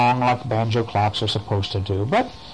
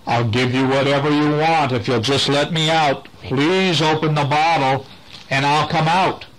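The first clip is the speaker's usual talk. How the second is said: voice from the bottle; 2 semitones higher than usual. Acted. A trapped voice pleading with Miss Moody from the bottle. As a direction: beg sweetly to be let out. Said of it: "a voice is coming from inside the bottle".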